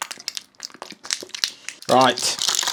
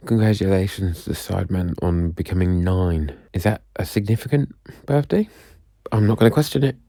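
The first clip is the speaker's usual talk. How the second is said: ordinary talk, nothing marked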